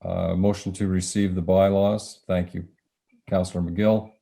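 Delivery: hoarse, strained voice; losing voice. Real, not acted. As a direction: voice going hoarse. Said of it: "I'm losing my voice here".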